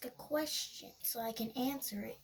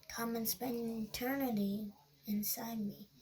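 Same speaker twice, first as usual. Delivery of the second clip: creepy whisper; 3 semitones lower than usual. Retold or imitated. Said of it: "That's a creepy heckin' voice".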